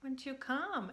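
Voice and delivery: put-on gentle coaxing to a calmed child; soft calming voice. Shown as a demonstration. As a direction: invite them back softly. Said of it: "I use a really soft, calming voice".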